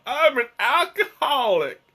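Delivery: high, hammed-up southern drunk; southern alcoholic voice. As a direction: play a comic drunk with a southern accent. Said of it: "my alcoholic voice has a southern accent".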